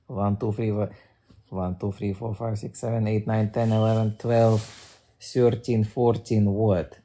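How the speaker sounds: counting in a put-on Russian accent. Shown as a demonstration. Streamer showing off the accent by counting, Russian accent. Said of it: "talk with a fucking Russian accent".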